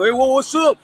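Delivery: white guy impression. Telling the host, imitating a white guy greeting him. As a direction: play a white guy trying too hard to say hi. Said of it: "a white guy trying to".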